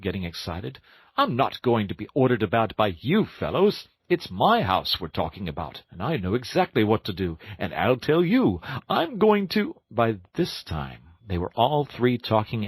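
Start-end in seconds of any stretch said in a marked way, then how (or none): 1.2-9.8 higher, rushing animal voice; Toad, indignant. Acted. Toad argues with Rat and Mole, higher and worked up. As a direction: Toad bristling, talking fast.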